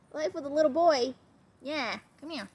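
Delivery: high, loud doting; fond singsong to the pup; pet-talk. Real, not acted. Trainer doting on her dog, high and loud.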